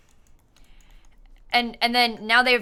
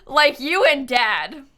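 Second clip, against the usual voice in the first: slow read-out; 3 semitones higher, 4 dB louder, much slower than usual. Retold or imitated. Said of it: "Danya said".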